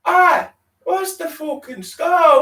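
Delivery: slow, high and loud confrontation; aggressive challenge. Acted. Shell suit guy challenging the group, slow aggressive shout. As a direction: square up to them. Rival youth challenging them.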